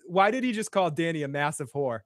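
put-on Boston accent, "horde" as "whore". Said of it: "It was my Boston accent".

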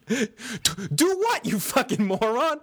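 high, sneering mock retort; mock angry John. Friend voicing John snapping at Sam. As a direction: snap back as a scornful John. Acting John's angry reply.

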